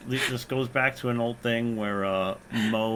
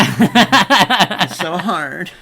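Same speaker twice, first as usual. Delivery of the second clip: mock anguish; 7 semitones higher, 12 dB louder, much slower than usual. Mock despair over photo talk.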